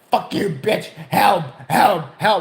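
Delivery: hammed-up yells for help; screaming old man. Old man on the floor rebuffs staff, mock screaming. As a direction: snap back, then holler in mock distress. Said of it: "started screaming".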